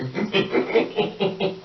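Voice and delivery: rapid string of little giggles; real giggle at your own joke; wheezy giggle. Real, not acted.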